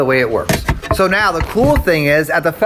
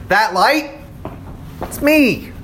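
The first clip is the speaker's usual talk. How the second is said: voicing Jesus; 6 semitones higher, slower than usual. Teacher voicing Jesus' claim.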